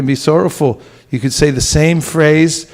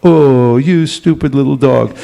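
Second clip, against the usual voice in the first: affectionate pet talk. Acted. Talking to a pet dog that only hears tone, affectionate. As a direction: say the insult as if it were praise. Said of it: "if the tone of voice is right, they'll appreciate".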